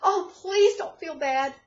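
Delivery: overdone tearful comforter fussing over the fallen guest; mock tearful sympathy. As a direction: gush over them like you're near tears. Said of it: "goes to crying and says".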